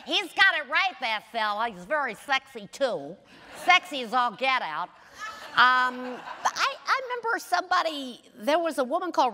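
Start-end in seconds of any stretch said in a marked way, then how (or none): 0.0-4.9 put-on brash boozy old bigot, pitched up; Ruby Romaine. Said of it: "Ruby Romaine was like a, a racist, uh, alcoholic".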